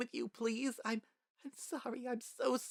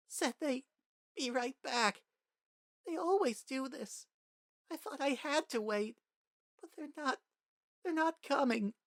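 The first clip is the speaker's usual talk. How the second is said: much higher, halting tearful confession; sobbing child; 14 semitones higher than usual. A narrator's reading. Frisk confessing to Toriel through sobs, high broken crying. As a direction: choke it out between sobs. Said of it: "in between your ugly sobs".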